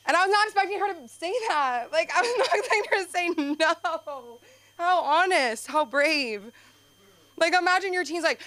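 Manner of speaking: tickled and incredulous; amused disbelief. Real, not acted. Comic telling about her mom, laughing disbelief.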